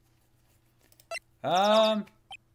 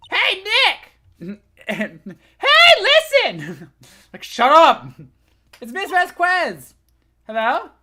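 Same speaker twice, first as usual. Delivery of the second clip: put-on excited girl; 12 semitones higher, 11 dB louder, much slower than usual. Voicing excited Maya.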